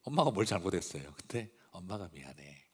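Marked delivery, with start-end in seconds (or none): 1.7-2.6 softer, hushed 엄마가 미안해 with a falling close; almost whisper the apology to the child; quiet soothing mom, softer still; hushed tender mother. Retold or imitated. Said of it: "그걸 옆에서 가만히 보면서".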